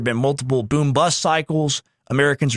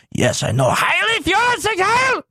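mock reply; 14 semitones higher than usual. Retelling the lawyer's reply mockingly.

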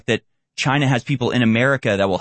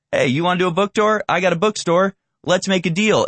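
open, eager American; 7 semitones higher than usual. Retold or imitated. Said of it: "To the American, this is all up front".

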